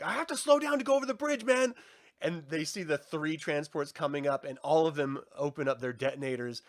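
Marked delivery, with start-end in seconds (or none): 0.0-1.7 retold urgent complaint. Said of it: "they're like".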